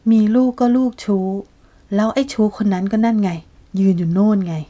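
bitter accusation. Acted. Pim accuses Nat before everyone.

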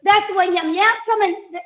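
normal talking voice

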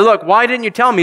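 high pleading reproach; reproachful cry. Retold or imitated. Coworker blaming the Christian who never warned him, high reproach. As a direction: cry it out, wounded.

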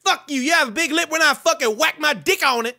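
a put-on Kanye voice, brash and cocky; Kanye West impression. Trash-talking strangers in game chat, brash Kanye voice. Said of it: "You guys wanna hear my real voice?".

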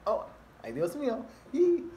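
high, bright cheer of Dios mío; high excited cheer; encouraging Spanish exclamation. Shown as a demonstration. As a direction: squeal it out playfully, rising to a yelp. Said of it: "it's like an encouraging".

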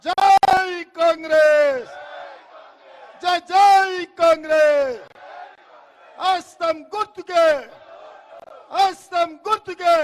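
slow, loud stretched rally slogan; party slogan at rally close; slogan shout. Real, not acted. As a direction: drag out జై for the crowd. Closing rally slogan chant.

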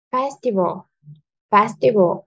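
"festival" with a strong "fes"; stress on first syllable. Shown as a demonstration. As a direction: model "festival" clearly, leaning on "fes", the rest light. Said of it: "Trọng âm rơi vào âm tiết thứ nhất". (nhấn âm đầu "fes" trong "festival")

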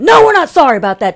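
imitated indignant contradiction; mock an angry lady overruling an apology; angry church lady. Imitating the lady correcting her companions, angry. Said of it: "her voice sounded so angry".

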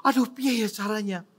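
high, hurried, flustered muttering to oneself; retold bewilderment. Preacher wondering how to prepare, flustered and high. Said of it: "heran gitu ya".

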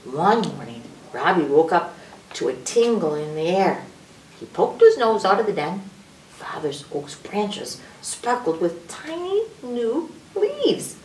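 storybook narration. A narrator's reading. Narrator reveals new spring leaves to children, building story voice. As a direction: read to children, lifting into discovery.

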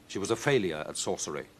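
plain reading voice

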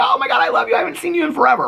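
very high-pitched put-on gush; hammed-up excited reunion voice; mock gushing greeting. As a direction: imitate squealing hello to a long-lost friend. Mimicked greeting of old friend.

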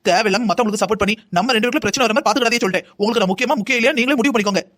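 indignant warning to a husband; angry. Acted. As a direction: scold him and lay down an ultimatum. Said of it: "அத்தை, கோவப்படாதீங்க அத்தை". (கோபமாக எச்சரிக்கும் குரல்)

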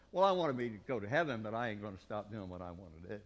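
mock-petulant excuse, rushed at the end; lightly voiced stubborn churchgoer. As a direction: whine your way out of it. Voicing an unrepentant person.

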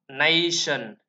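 "nation" said as NAY-shun, stress on the first syllable; teacher modelling "nation" as NAY-shun; English pronunciation demo. Shown as a demonstration. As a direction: sound out "nation" clearly, NAY-shun, falling at the end. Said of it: "từ này chúng ta sẽ đọc là".

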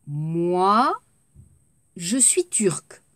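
whispered "je suis turc"; rhythm drill. Shown as a demonstration. Teacher drills rhythm for students, whispering. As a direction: drop to a hushed whisper.

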